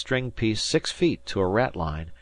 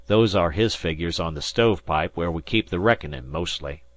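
lightly voiced old sea captain; an easygoing skipper addressing his boy; Disko, rustic skipper; 3 dB louder than usual.

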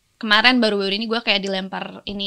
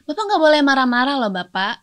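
mild, controlled reprimand; firm scolding. Pretend. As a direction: firmly tell the patient off without anger. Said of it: "Ih, dokternya galak". (menegur dengan tegas)

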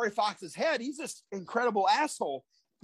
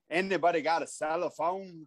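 low veteran wrestler impression; put-on old wrestler's lower voice; Tony Atlas; 4 semitones lower than usual. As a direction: lightly imitate his famous catchphrase. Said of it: "remember how he said".

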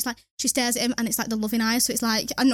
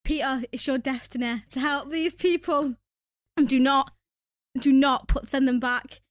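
Aunt May. Acted. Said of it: "You are Aunt May in Spider-Man".

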